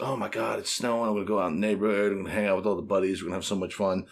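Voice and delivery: put-on excited kid. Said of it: "As a kid".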